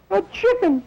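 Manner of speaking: high falsetto wife, hurt and shrill; outraged wife. Retold or imitated. Wife catching husband with a chicken, high and outraged. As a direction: shriek it like a betrayed housewife.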